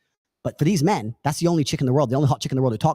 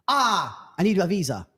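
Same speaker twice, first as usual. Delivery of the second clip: put-on higher voice of the girl asking for money; girl's voice; 4 semitones higher than usual. Imitating the girl to the man, lightly pleading.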